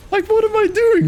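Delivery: real frustration, sudden high loud cry; venting at his own misplay, a sudden high loud yell; exasperated outburst. Real, not acted. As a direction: blurt it out at yourself in disbelief. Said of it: "So I'm a little bit frustrated with myself".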